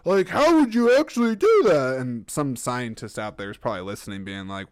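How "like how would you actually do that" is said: high, loud, incredulous mock voice; squeaky over-the-top disbelief, much higher and louder; mocking clueless idiot. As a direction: play a gasping doubter who can't believe it. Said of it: "I'm just being an idiot that's like".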